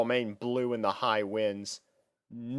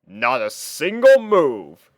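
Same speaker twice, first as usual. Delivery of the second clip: slow, louder, satisfied boast; proud; 6 dB louder, slower than usual. Acted. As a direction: savour the victory. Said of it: "he proudly stated".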